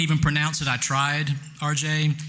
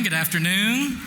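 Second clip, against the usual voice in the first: higher, livelier good afternoon; bigger greeting; 5 semitones higher than usual. Shown as a demonstration. Host retries greeting to rouse the room, livelier. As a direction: pump up the crowd with your hello. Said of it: "Try again".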